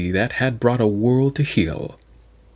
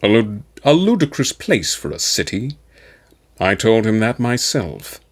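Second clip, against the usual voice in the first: a lightly voiced cool, dismissive warlord; dry commander. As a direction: scorn the city plan coolly. Valdor's character voice.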